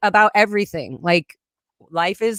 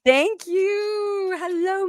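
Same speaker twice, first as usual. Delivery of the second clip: between kisses; 13 semitones higher, much slower than usual. Real, not acted. Birthday goodbye, blowing kisses.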